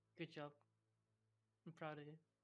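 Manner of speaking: mocking, sarcastic, insincere praising tone. Reacting in character to a party member's reply: sarcastic. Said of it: "it's very sarcastical".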